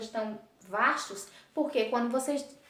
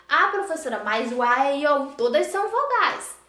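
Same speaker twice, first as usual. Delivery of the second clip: louder, protesting pupil voice; pupil's objection; 6 dB louder than usual. Pretend. Teacher voicing a student who objects about the vowels. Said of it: "imagined pupil objection".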